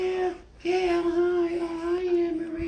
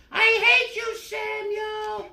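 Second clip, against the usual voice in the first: higher, louder angry shout; angry retort; 4 semitones higher, 5 dB louder, slower than usual. Acted. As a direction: throw it back at the bully. Gail yells back.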